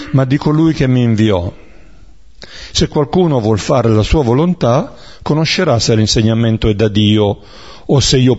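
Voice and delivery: measured, even reading of scripture aloud. Acted. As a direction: read the Gospel to the class, steady and clear. Reads Gospel passage aloud.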